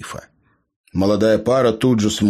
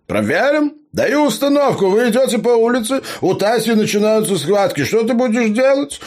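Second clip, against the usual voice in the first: very high, loud commanding gnome; stern drill-sergeant gnome; 4 dB louder than usual. A narrator's reading. Gnome tests Leo with a labour scenario, loud and commanding. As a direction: bark out the scenario like a drill instructor. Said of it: "грозно посмотрел снизу вверх".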